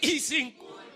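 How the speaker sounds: slow, emphatic shout; said loudly. Shown as a demonstration. Preacher has congregation repeat it, loud slow shout. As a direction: shout it slowly for the crowd to echo. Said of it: "Ahora dígalo fuerte".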